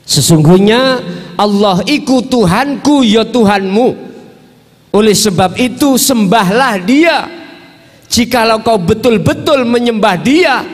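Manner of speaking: high-pitched preacher's declamation; declaimed scripture. Acted. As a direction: proclaim the verse high and emphatic. Declaims the translated scripture verse.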